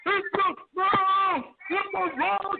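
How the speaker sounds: slow, drawn-out wrestler trash talk; lightly voiced cocky wrestler boast; The Rock. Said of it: "And, and The Rock would say".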